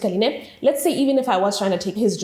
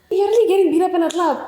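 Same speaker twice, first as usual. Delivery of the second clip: high, louder, fast, laughing tease; teasing laugh; 10 semitones higher, 6 dB louder, much faster than usual. Retold or imitated. Friend joking about the club beating, fast laughing tease. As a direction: rattle it off laughing at her.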